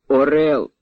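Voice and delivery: tipsy exclamations, rising high; drunken cheering. A narrator's reading. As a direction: cry out like admiring drunks. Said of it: "вигукували п'яними голосами".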